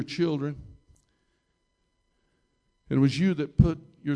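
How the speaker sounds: deliberate prayer with long pauses between phrases; public prayer. Real, not acted. Preacher praying to Jesus about forgiveness, measured public prayer. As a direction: pray aloud in measured, emphatic phrases.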